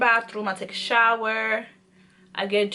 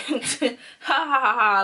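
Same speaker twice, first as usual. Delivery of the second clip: imitated mocking laugh; slower than usual. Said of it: "He would literally laugh at me like".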